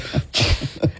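unvoiced drone-smash sound effect; imitated crash noise. Host retelling the drone crash, imitated crash noise. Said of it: "it goes up and goes".

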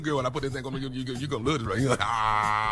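breathless character. Retold or imitated. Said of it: "You're out of breath".

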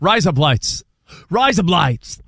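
put-on light Australian accent, Rise said like "raise" with lights near "blades"; mock Aussie, so Rise up, lights sounds like razor blades; playful Australian accent imitation. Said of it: "in an Australian accent".

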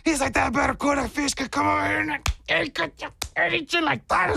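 high, incredulous tourist; excited stranger. Retold or imitated. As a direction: squeak out the stranger's disbelief. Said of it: "And he goes".

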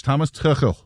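Tuchel said with a German throaty ch; German pronunciation. Shown as a demonstration. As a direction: say Tuchel the German way, with a raspy ch for the k sound. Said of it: "how I'm gonna say it with my, uh, German background".

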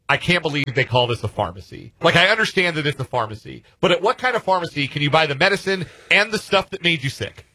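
mock Kiwi tourist in a New Zealand accent; lightly imitated New Zealand accent. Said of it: "he says in his New Zealand accent".

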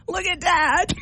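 put-on high, laughing kid voice; giggling daughter. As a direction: squeal it like an amused kid. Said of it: "And Phoebe goes".

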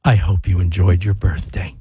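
low, slow creepy whisper. Pretend. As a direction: whisper it like a horror villain. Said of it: "read your apology in the creepy voice".

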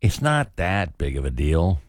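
slow, dismissive put-down; patronizing and measured; condescending. Shown as a demonstration. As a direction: play it down slowly, talking down. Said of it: "say it in our most condescending way".

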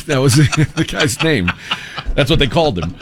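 talking through real laughter; laughing. Real, not acted. Co-hosts recall a movie boss's silly nickname, laughing.

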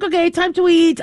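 dog's cheerful voice. Retold or imitated. Bleeding dog cheerfully asking for food, high chirpy voice. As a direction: voice the oblivious happy dog. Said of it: "she's like".

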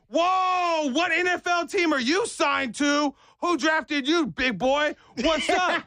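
high, booming-in impression of an overexcited father-in-law; mock-excited greeting. Father-in-law sizing up a big stranger, high excited voice. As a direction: gush at a big stranger as if star-struck.

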